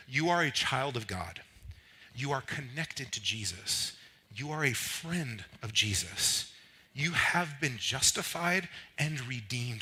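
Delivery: slow, deliberate list reading; declaration reading. Real, not acted. Preacher reading the congregation who they are, solemn declaration. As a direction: give each statement room to land. Reads list of identity statements.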